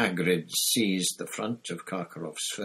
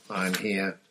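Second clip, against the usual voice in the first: gruff, wheezy character voice; a short wheezing growl. A narrator's reading. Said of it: "said a wheezy growl".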